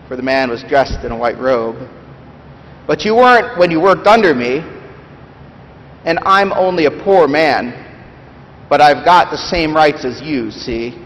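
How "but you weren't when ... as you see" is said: bitter ghost. Acted. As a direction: bluster like a wronged, bitter ghost. Reads Big Ghost's lines.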